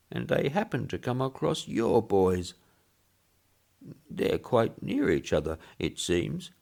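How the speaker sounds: put-on piping elderly visitor, chatty; old man voice. Old man telling the boss about the graves, high piping voice. Old Woodfield's long speech.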